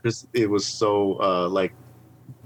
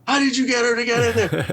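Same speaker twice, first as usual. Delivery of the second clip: imitating coworker; 11 semitones higher than usual. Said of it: "and go".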